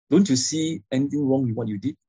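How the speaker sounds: questioning push on "anything wrong"; question intonation. Shown as a demonstration. Parent questioning a teenager, put as a question. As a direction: ask it, voice lifting toward "what you did". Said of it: "You put it as a question".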